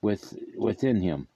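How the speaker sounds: solemn, measured Bible reading; scripture reading. Acted. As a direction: read the verses with gravity.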